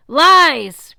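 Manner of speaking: loud high shout of denial; titan screaming denial; furious shout. A narrator's reading. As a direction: spit it out in rage. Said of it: "Kronos pushed again".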